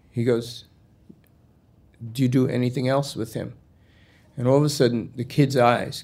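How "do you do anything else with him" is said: measured, evenly spaced question; retold cop asking carefully, word by word; deliberate repeat. Cop pressing the puzzled kid about Cleveland, deliberate.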